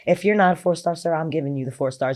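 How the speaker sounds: quick, choked-up words of gratitude; tearful thanks. Real, not acted. Veteran thanking her old commander, holding back real tears. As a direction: voice catching with real tears as she thanks him.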